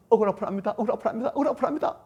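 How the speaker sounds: mechanical repeated complaint. Acted. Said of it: "그냥 무조건".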